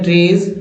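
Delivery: ट्रेज said "trayz", with a voiced Z; "ayz" ending shown. Shown as a demonstration. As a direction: model ट्रेज with a long "ay" and buzzing ending. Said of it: "ए भाई को एज बोलते हैं".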